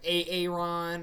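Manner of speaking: "A-, Aaron" stretched slowly, stumbling on the A; drawn-out name. Retold or imitated. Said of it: "he was saying the white names like that".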